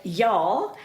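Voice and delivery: drawn-out Texas "y'all"; playful touch of Texas accent. Pretend. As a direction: stretch "y'all" slowly, lightly Texan. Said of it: "I'll put on my Texas accent now".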